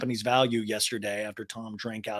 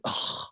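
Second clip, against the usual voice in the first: mock groan; 6 dB quieter than usual. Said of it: "He's like".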